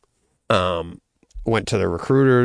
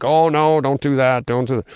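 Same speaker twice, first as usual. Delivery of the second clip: mock panicked mom; 5 semitones higher than usual. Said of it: "she didn't go like".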